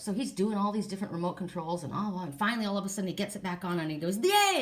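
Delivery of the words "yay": high, loud mock cheer; retold cheer. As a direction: cheer like the hero who fixed it. Husband gets TV back on.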